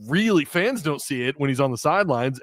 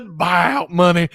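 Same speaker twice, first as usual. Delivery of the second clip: mock buyout money; 4 semitones higher, 5 dB louder, much slower than usual. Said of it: "Did you hear the way she said".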